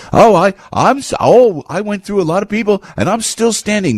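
high-pitched mocking imitation; Nikki Haley. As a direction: put on a high, self-pleased boast. Mimics Nikki Haley's boasting.

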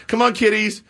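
high, coaxing pet-calling voice; singling out the kitties, high and eager; re-enacted cat call. Acting calling his cats.

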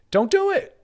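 high, loud exclaimed warning; loud, high-pitched mock plea; emphatic warning. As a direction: burst out with it, pitch leaping way up. Blunt mock warning to commitment-averse people.

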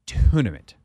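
put-on a touch of a proper old Southern accent on "Tournament". Host imitating the old Masters chairman, light Southern accent. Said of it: "Just very Southern".

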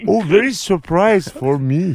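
put-on slow, broken English with a Turkish accent; bad English. Ex-wife greeting returned husband, slow broken Turkish-accented English. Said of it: "Nurgül'ün İngilizcesi kötüleşmiş".

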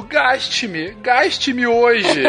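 money's pleading voice. Pretend.

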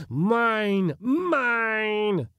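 high, drawn-out rival shriek; high possessive scream. A narrator's reading. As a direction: shriek the claim back at a rival. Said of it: "shrieked another".

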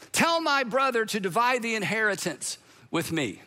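measured, mildly projected demand; mock call from crowd. Man in crowd asking Jesus to intervene, mild call-out. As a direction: lightly declaim it as a call from the crowd. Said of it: "Someone in the crowd shouts out".

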